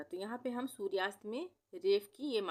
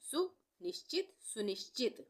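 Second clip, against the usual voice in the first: high slow; 4 semitones higher than usual. Shown as a demonstration. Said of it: "तो ये बन गया सुनिश्चित".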